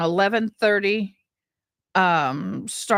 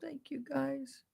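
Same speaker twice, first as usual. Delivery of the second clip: whispered thanks; 6 semitones higher, 17 dB quieter, slower than usual. Real, not acted. Emotional thanks after sister's death.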